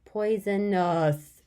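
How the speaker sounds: Poisonous said slowly to hear each sound. Shown as a demonstration. Teacher to kids, sounding out slowly. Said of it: "what sounds do you hear?".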